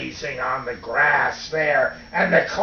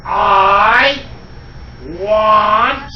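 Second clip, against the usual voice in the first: loud, high, drawn-out bellow, word by word; greedy clay boy demanding food; 4 semitones higher, 7 dB louder, much slower than usual. Acted. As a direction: bellow each word long and hungry. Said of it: "and he said".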